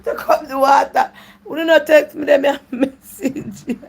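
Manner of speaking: high, loud words through real laughter; laughing. Real, not acted. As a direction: laugh while you talk. Laughing at the caller's comment.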